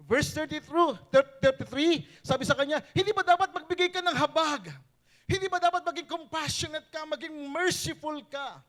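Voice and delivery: loud, high preaching at full force. Acted. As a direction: preach it hard to the congregation. Preacher pressing a point.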